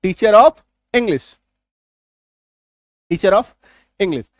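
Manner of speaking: teacher of English very slow, r joined into of; linking r. Shown as a demonstration. Teacher slowly models linking the r in teacher of English. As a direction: link the r of teacher into of. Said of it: "आपको बोलना है".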